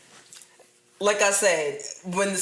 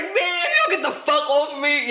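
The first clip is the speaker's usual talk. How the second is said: mock drunk boyfriend; 8 semitones higher, 4 dB louder than usual. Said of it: "He was like".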